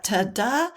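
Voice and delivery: "ta-da" with stress on "da"; light "ta", longer "da" in "ta-da"; iambic stress. Shown as a demonstration. Teacher likening iambs to a heartbeat, "ta-da" end-stressed. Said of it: "it's similar to a heartbeat".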